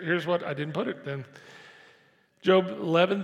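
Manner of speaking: ordinary talk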